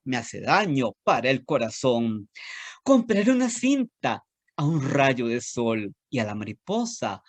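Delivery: lilting, sing-song storytelling read; animated children's poem reading. Acted. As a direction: recite it like a rhyme for little kids. Reads a children's poem aloud.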